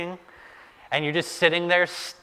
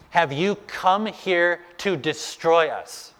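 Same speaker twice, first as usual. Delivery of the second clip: slow, higher-pitched demon challenge; mock shouting; 4 semitones higher, slower than usual. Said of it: "This unclean spirit is shouting at Jesus".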